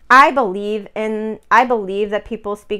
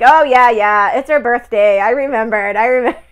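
louder, mock-eager husband butting in; clueless husband imitation; 6 dB louder than usual. Clueless husband insisting to his wife, loud imitation.

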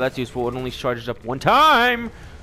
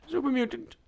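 soft unvoiced whisper; 8 semitones higher, 8 dB quieter than usual. Real, not acted. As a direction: whisper so the mutant won't hear. Whispers on spotting enemy.

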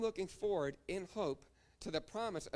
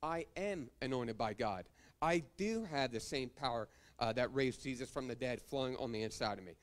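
confident faith declarations. Retold or imitated. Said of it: "we'll start talking like this".

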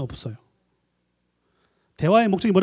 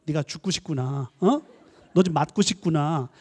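mock threat; 3 semitones lower, slower than usual. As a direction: threaten low and slow. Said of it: "어떤 구나를 들었어?". (아이를 겁주는 부모의 느리고 낮은 협박조)

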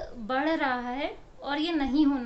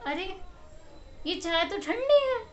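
mock grumpy complaint; 6 semitones higher than usual. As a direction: grumble like a spoilt husband wanting hot tea. Husband complains tea is cold. (पति का ठंडी चाय पर शिकायती, ऊँचा और तेज़ लहजा)

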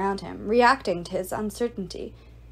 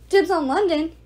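louder, higher call-out; yelled; 7 semitones higher, 6 dB louder than usual. Acted. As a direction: shout across the table. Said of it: "yelled a ghoul".

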